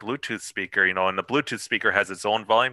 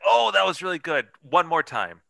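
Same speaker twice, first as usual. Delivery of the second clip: overly sweet director; 7 semitones higher than usual. Retold or imitated. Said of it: "I'm like".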